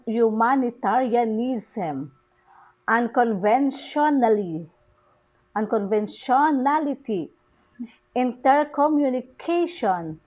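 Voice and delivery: "humanitarianism, unconventionally, unconventionality, intercommunication" stressed late in each word; stress on late syllable. Shown as a demonstration. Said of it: "the stress falls on the".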